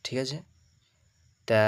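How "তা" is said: তা with a long held "aa"; drawn-out vowel. Shown as a demonstration. Teacher models for students, তা drawn out long. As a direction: stretch the vowel of তা. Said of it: "এগুলো একটু করে টানবেন".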